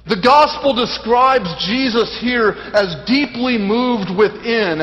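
emphatic preaching. Real, not acted. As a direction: proclaim it with weighty emphasis. Preacher expounds to congregation.

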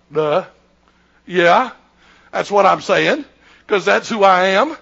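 deadpan confirmation with pauses; matter-of-fact duh. Retold or imitated. Jesus confirms to the scribes who he is, matter-of-factly. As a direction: answer as if it's obvious, piece by piece.

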